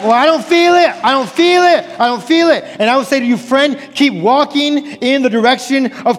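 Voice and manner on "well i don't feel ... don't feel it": higher, insistent imitated objection; mock complaint, repeated insistently; mock protest. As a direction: imitate a stubborn objector, pitched up. Voices a protesting listener, repeatedly.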